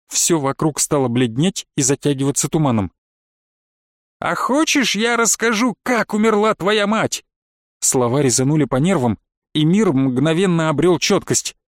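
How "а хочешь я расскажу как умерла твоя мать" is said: high, slow, sly witch voice; taunting witch. A narrator's reading. Witch teases her stepson about his mother's death. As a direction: dangle the secret cruelly, voice lifted high.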